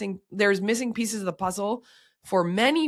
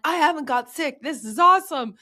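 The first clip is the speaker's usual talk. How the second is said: smug delight; 8 semitones higher, 5 dB louder than usual. Retold or imitated. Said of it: "I was like".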